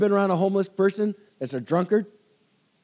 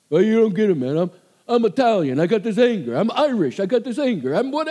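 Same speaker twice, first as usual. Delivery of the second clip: mock angry excuse; 3 semitones higher, faster than usual. Imitating angry counselee's excuses.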